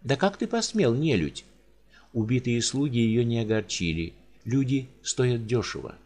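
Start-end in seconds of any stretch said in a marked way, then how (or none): 0.0-1.4 high, sharp and scornful; a spoiled lady scolding a beast; haughty countess. Acted. Countess scolds the giant in haughty outrage.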